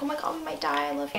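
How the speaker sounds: hushed, breathy dramatic line; soft dramatic whisper. Acted. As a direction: whisper it like a movie confession. Voicing couple's tender looks.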